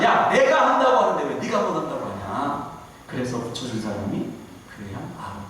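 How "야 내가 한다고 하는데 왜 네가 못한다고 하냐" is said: a touch of a scolding God, only mildly raised; mildly voiced God rebuking Moses; understated exasperated rebuke from God; mock angry God. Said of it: "나중에 하나님이 화내시잖아요".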